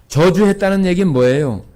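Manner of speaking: usual speaking voice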